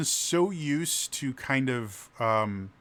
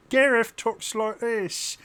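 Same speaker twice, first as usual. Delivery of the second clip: very high, slow comic sidekick voice; high, stretched-out cartoonish voice; Gareth; 10 semitones higher, 4 dB louder, slower than usual. Shown as a demonstration. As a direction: say it in a silly high-pitched squeak.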